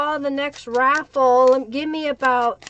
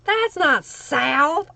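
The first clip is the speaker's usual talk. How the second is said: slow, back at normal volume; 2 semitones higher, much slower than usual. Pretend. Repeating the teasing retort, softer.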